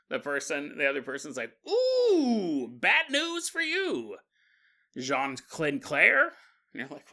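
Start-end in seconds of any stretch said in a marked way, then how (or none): 1.7-6.3 mock taunting. Mocking fellow reader spoils the book.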